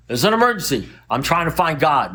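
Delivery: mildly hammed-up alarm; mock urgency. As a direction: imitate a friend pleading an emergency. Retells friend's panicked phone excuse.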